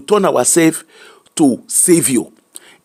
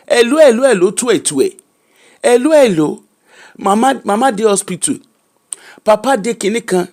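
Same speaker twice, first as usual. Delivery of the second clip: a raised, urgent "hello, hello" down the phone line; imitating a pleading relative; 3 semitones higher than usual. Advice talk, a relative calls asking for help: mock urgent pleading. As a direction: mimic the relative who calls only to ask for money.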